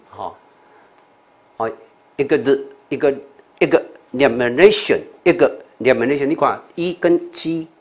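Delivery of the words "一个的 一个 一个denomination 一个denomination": "examination" as ig-za-mi-NAY-shun, the ig set apart; sounds said separately. Shown as a demonstration. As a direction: voice the g and z in "examination", detaching ig first. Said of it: "也是要单独念". (把 examination 开头的 ig 单独念)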